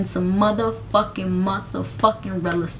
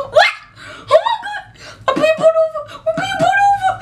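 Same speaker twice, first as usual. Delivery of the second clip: much higher, panicked words broken by laughter; laughing panic; faster than usual. Retold or imitated. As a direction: laugh through the shock of being pulled over. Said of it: "And I'm just like".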